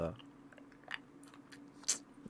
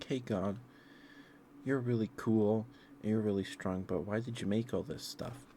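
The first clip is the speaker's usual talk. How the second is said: higher and louder, eager flattery; mock gushing Moses; 4 semitones higher, 4 dB louder than usual. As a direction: play Moses buttering up God, voice up. Moses flatters God, retold.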